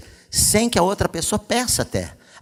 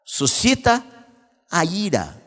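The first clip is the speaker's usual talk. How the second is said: louder, slow, emphatic pulpit preaching; preaching at full force; 6 semitones higher, 5 dB louder, slower than usual. Acted. Pastor exhorting couples from the pulpit, loud slow preaching. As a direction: drive each verse home to the church.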